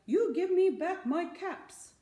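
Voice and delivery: high, loud scolding at the monkeys; scolding peddler. Acted. Peddler scolding the thieving monkeys, high and loud. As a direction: wag a finger and scold them. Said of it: "he said, shaking a finger".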